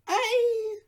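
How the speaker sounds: lively little dwarf. A narrator's reading. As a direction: chatter on like an excitable dwarf. Dwarf answers kindly.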